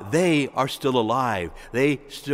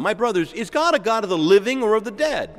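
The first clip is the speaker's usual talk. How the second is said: higher-pitched rhetorical question; reasoning appeal; 6 semitones higher than usual. Retold or imitated. The Lord questioning the Sadducees, reasoning appeal. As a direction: press the question to reason with them. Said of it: "he reasons with them".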